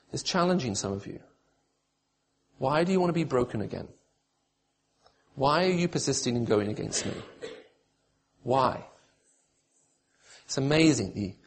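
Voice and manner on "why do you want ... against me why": soft, grave questioning with long pauses; quiet challenge. Acted. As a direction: let each question land softly on the listener. God challenging listeners, questions asked softly.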